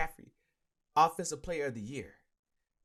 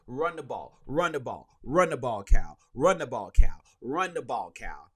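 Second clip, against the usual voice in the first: rising yell, louder with each repeat; frustrated fan yelling run the ball at the coach; 3 semitones lower, 6 dB louder than usual. Retold or imitated. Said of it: "I'm yelling".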